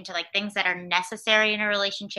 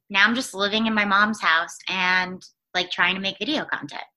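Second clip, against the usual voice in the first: talking between sips of coffee; words around a mouthful of coffee; while sipping a drink. Real, not acted. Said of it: "I'm drinking coffee".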